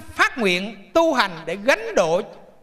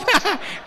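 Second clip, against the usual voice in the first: laugh; 9 semitones higher than usual. Real, not acted. Laugh after punchline.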